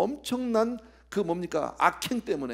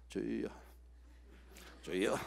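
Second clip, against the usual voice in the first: low, soft, listless mock prayer; subdued, reluctant call to the Lord; half-hearted prayer; 7 semitones lower, 10 dB quieter, slower than usual. Shown as a demonstration. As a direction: imitate someone praying without any fervour. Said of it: "그렇게 기도하면 안 돼".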